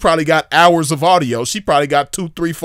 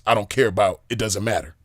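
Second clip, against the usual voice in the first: softer, lower mock of his line; mocking imitation; 5 semitones lower, 5 dB quieter than usual. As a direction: mimic the limp phrasing lightly. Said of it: "Who talks like that?".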